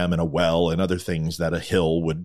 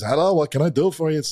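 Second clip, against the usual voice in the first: high-pitched put-on rabbi voice; hammed-up high rabbi greeting; rabbi character; 7 semitones higher than usual. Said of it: "and the rabbi says".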